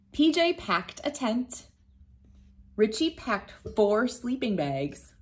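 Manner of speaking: lively storybook read-aloud; reading to children. A narrator's reading. Teacher reading a picture book to children, lively storytime voice. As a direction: read it like storytime for little kids.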